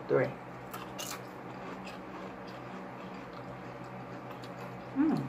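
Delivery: crunching between words; talking while chewing. Real, not acted. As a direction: mouth partly full of chips. Seen 0: Left speaker bites chips before and during words, keeps chewing.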